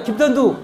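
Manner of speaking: 김턴두 with a hard t in place of ch; lisping own name 김턴두 childishly; tongue-tied lisp. Shown as a demonstration. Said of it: "혀 짧은 소리 있죠?".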